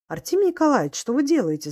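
высокий испуганный вскрик; закричать в ужасе, сорвавшись; крик не своим голосом. A narrator's reading. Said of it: "закричала Таня не своим голосом". (испуганный крик не своим голосом)

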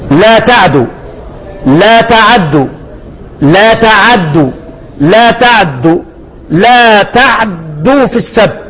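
لا تعدوا recited four different ways in turn; four readings. Shown as a demonstration. Teacher listing the four readings for the class. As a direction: contrast each reading of تعدوا deliberately. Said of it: "أربع قراءات".

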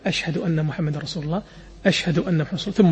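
quiet, low shahada of the Prophet; soft murmur. Shown as a demonstration. Teacher demonstrating the quiet repetition in the call. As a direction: keep it hushed. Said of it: "نفس العمل".

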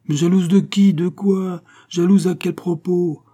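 high, loud string of questions; indignant disbelief. A narrator's reading. Don José questioning Fatima's jealousy, indignant disbelief. Challenging her confessed jealousy.

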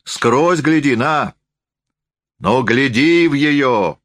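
high, emphatic rustic urging; drunken forester, insisting. A narrator's reading. (лесник настойчиво, высоко уговаривает)

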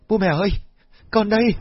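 high, loud eager cry; calling out. Acted. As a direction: call out desperately. Girl calling out to parents.

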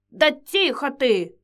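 slow sharp hush; snapping. Acted. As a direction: snap at her to hush. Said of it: "прикрикнула старуха".

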